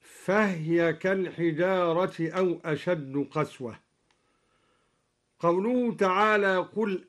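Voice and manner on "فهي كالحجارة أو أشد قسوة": فهي read fahy, the ha without vowel; silent ha in fahya. Shown as a demonstration. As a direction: clip فهي to one syllable. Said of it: "قرأ الدوري بإسكان الهاء". (إسكان الهاء في فهي)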